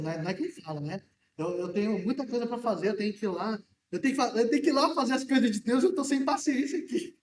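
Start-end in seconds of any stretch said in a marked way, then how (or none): 1.4-7.2 hurried, exasperated grumble, rising at the end into a laugh; impatient inner voice. Retold or imitated. Preacher voicing his own impatience at the market, hurried and annoyed. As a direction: rush it like you're late and fed up. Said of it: "eu fico pensando".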